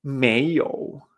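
"Meiyou" rising, then dipping; tones two-three. Shown as a demonstration. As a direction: lift "Mei", dip on "you". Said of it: "la combinación dos tres".

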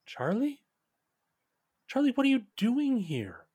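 a woman's voice pitched well up, calling gently; soft woman calling out to Charlie; soft female voice. Acted. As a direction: call his name softly as a surprised woman. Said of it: "a soft female voice".

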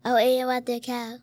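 muffled behind a hand; hand over mouth. Real, not acted. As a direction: talk through covered mouth. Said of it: "Get your hand off your mouth".

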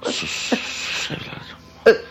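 slow, whispered shushing; hushing. Acted. Father soothing his crying son, hushing. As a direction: hush a weeping child, drawn out.

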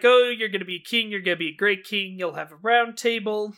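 quick, eager mock prediction; lightly imitated excited chatter; mildly excited imitation. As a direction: rattle it off with a touch of excitement. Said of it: "And he's all excited".

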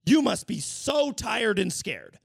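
slow, overly gentle prince voice; drawn-out syrupy concern, hammed up; mock prince. Prince mocked for fussing over a naked stranger, syrupy. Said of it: "he's like".

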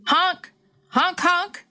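high, held honks like a horn; car horn imitation. A narrator's reading. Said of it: "pushed on the horn".

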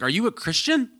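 high, probing question in mock mom voice; overbearing mom. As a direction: imitate a prying mother, pitch shooting up. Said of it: "with an overbearing stranger".

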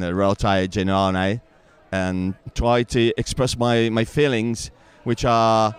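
put-on halting English with a heavy Italian accent. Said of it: "parla un po' inglese".

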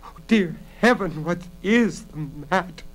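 tearful despair; desperate sob. A narrator's reading. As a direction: plead as if close to sobbing. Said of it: "Bella sobbed desperately".

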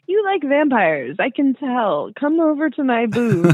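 high, slow, beckoning sales voice; vendor's pitch. Retold or imitated. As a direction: lure the customer in, slow and high. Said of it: "he's like".

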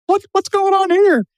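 high, astonished double take; baffled disbelief. Retold or imitated. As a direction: sound totally thrown by the surprise. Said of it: "I was like".

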